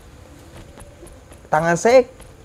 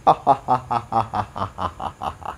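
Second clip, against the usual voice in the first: long mock laugh. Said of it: "Dia ketawa".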